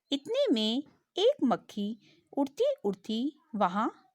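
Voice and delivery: put-on slow storytelling voice for children; story narration. Teacher reading a story to young pupils, slow and clear. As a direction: read it slowly to the class like a storybook.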